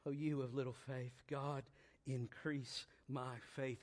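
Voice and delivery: quiet prayer. Acted.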